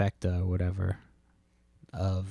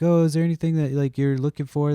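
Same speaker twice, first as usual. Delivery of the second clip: imitating the lady's voice, much higher and louder; mock sweet lady; 7 semitones higher, 6 dB louder than usual. Mocking the pushy lady who dug in his bin, high fake-polite voice. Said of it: "she's like".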